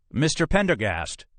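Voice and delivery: high-pitched call after someone. Acted. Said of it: "Captain Custer called".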